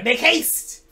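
high, loud frantic call; urgent haste. Acted. Gollum urging Frodo onward, high and frantic. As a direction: push them to hurry, alarmed. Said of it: "hissing with fear and impatience".

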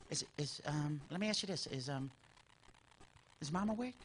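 put-on very soft, hushed scheming kid; sneaky whisper. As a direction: whisper so Mom won't wake. Sneaky kid, mom asleep.

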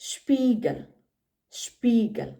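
ഷ്പീഗൽ with sh before the p; German pronunciation of ഷ്പീഗൽ; German word Spiegel. Shown as a demonstration. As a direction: start ഷ്പീഗൽ with a clear sh sound. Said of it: "അതിൻ്റെ example വരുന്നത്".

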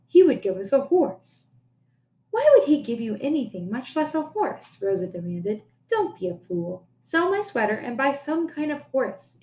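reading a folk tale aloud to the class; teacher reading a story to pupils, storytelling voice. A narrator's reading. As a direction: tell the tale to students, expressive.

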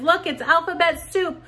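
put-on ta-da, show the kids the soup can; delighted reveal to little kids; excited reveal. Teacher shows item to children.

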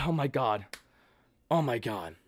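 very low, barely voiced awe; hushed disbelief. Real, not acted. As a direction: murmur it, overcome. Overcome by the win.

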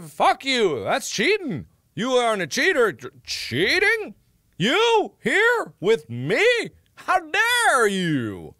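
high, slow, mock-affronted scolding; hammed-up indignation. Streamer scolds chat about cheating in hammed-up indignation. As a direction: play the scandalised guardian of honesty.

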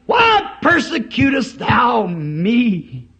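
slow, pleading cry from heaven. Acted. God calling to Saul in a slow, crying voice. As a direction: call down to him slow and crying. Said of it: "a voice from heaven".

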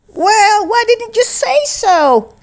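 high, kindly umpire. A narrator's reading. Umpire telling Firex how to get home, kind. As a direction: offer help kindly. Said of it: "Keith said kindly".

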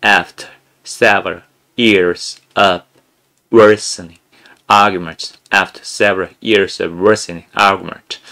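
very slow, over-articulated reading; sound-English style. Shown as a demonstration. Teacher demoing the sound-English method, drawn-out exaggerated reading. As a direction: stretch every word of "After several years of worsening argument" out slowly. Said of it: "윤성호 영어식으로 하면".

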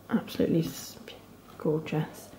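breathless whispered admiration; whispered awe. Real, not acted. Vlogger whispers in awe over the speckled yarn. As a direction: hush it out, awed by the colours.

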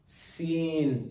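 sin held long through a smile; smiling sin. Shown as a demonstration. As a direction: model SIN with smiling lips. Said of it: "just like we are smiling".

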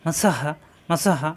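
slow, separated মা সা হা; careful slow recitation; slow syllable drill. Shown as a demonstration. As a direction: spell it out slowly, one syllable at a time. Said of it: "আর কত উচ্চারণ তাড়াতাড়ি".

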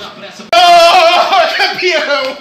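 ecstatic high yell; explosive goal commentary. Real, not acted. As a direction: scream it out in pure joy. Goal scored for his team. (grito de gol eufórico)

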